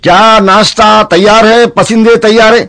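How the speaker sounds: high, slow lordly orders; commanding nawab. Acted. Nawab ordering his servant before hunting, slow and lordly. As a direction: lay down the order grandly and slowly. Nawab asks about food.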